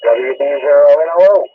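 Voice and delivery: tinny radio sound; tin can phone. Real, not acted. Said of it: "you've got this tinny, tinny noise".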